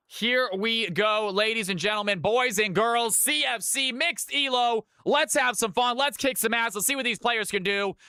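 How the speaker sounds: hyped ringmaster intro; rally the crowd like a ringmaster. Acted. Hypes start of match.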